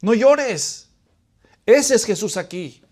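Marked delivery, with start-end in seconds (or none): 0.0-0.9 acted fatherly consoling, slow-paced; compassionate father. Father consoling his son, acted compassion. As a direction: gently reason with a hurting child. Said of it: "es la compasión que tiene".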